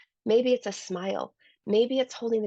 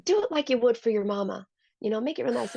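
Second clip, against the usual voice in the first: put-on Southern accent; 4 semitones higher, faster than usual. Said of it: "He has a Southern accent".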